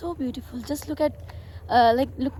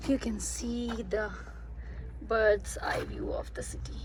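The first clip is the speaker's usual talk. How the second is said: whispering; 8 dB quieter than usual. Real, not acted. Hushed view from the tower.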